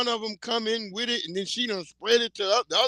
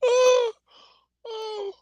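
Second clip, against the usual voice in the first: high laughing oh. Real, not acted. Laughing at farting.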